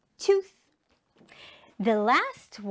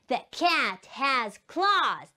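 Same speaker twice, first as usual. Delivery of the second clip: word by word for learners; slow repeat-after-me reading; slow model sentence; slower than usual. Shown as a demonstration. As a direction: pronounce each word slowly and separately. Teacher repeats sentence with pupils.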